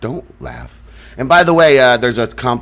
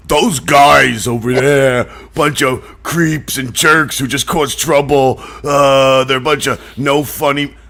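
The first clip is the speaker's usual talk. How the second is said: mocking complainers. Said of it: "they say there's these people out there. They're like".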